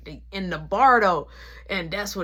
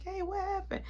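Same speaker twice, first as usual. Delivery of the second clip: high, softer, calm question; 12 semitones higher, 10 dB quieter than usual. Retold or imitated. Dad comes in and asks calmly, high and soft. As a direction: ask gently, unbothered. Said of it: "Very calm".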